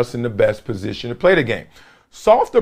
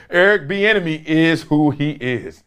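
quoting the coach. Retold or imitated. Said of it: "He says".

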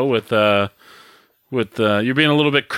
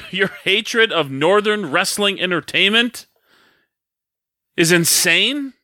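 mock-heated accusation; promo-style jab with a long pause before the punch; bringing the heat; 3 semitones higher than usual. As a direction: hold back the last words for effect. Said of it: "you're bringing the heat".

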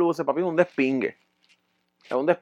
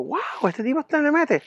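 put-on higher, impressed girl voice; a hint of her surprised tone; lightly voiced girlfriend; 10 semitones higher than usual. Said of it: "ella como que dijo". (voz de ella, algo más aguda)

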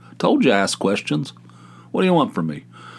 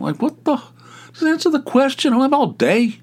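a mock shriek of impatience; exasperated outburst. Exasperated at picky askers.

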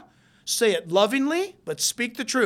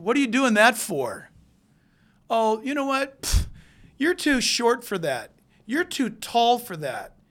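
louder mock fault-finding; imitated criticism; 3 semitones higher, 4 dB louder than usual. Critical spouse or parent belittling family, mock scolding. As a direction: put someone down in an exaggerated scolding. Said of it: "You're destroying people talking like that".

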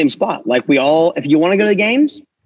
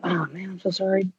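very soft, hushed sorry; mock apology; 11 dB quieter than usual. Guest imagining his texted reply to Matt, hushed mock apology. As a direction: shrink into a half-hearted little apology.

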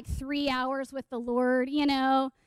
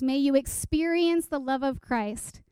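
measured, even recital of Scripture; verse recitation. Acted. Speaker quotes a memorized verse to listeners, measured recitation. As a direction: recite the verse carefully at an unhurried pace. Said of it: "in the translation I memorized it".

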